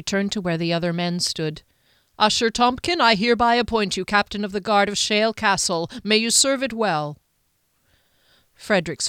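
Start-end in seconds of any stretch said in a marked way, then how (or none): 2.2-7.2 formal lord's appointment. Acted. Duke appoints new captain.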